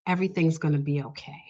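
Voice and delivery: softly retold comfort; gentle reassurance. Patient stops the upset assistant mid-sentence, gentle reassurance. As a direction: say it softly, as a calming stranger would.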